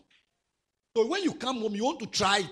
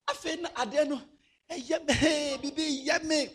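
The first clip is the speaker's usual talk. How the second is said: laughing; 7 semitones higher than usual. Real, not acted. Laughing aside while retelling.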